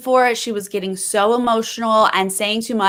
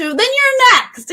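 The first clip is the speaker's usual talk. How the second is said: mock outburst, much higher and drawn out; retold blow-up; 4 dB louder, slower than usual. Podcaster retells Russell blowing up at Jerry, mock outburst. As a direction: blow up in a high, slow mock threat. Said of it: "he just, like, blows up".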